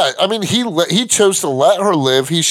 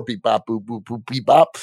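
alien voice; 5 semitones lower than usual. Retold or imitated. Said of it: "The old beep".

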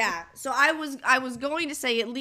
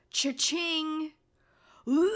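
mock glee; 6 semitones higher, much slower than usual. Mocking Joey's glee.

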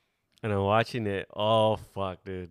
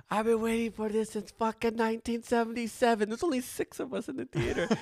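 voice cracking with emotion; 12 semitones higher than usual. Retold or imitated. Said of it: "he has a little crack in his voice".

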